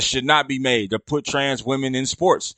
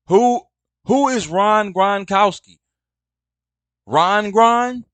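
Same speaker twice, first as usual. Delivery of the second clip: pitched way up in disbelief, louder; who on earth is this, baffled; incredulous; 7 semitones higher, 4 dB louder, slower than usual. Real, not acted. Baffled by the misspelled name.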